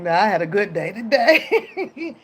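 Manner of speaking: chuckling while saying it; can't keep a straight face; laughing through the line. Retold or imitated. Admitting the fake to her man, laughing while she speaks. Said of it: "I'm like".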